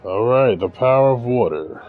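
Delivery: loud thrilled outburst; hyped about the new power; excited. Real, not acted. New power unlocked in game.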